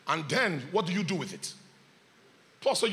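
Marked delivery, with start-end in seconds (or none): none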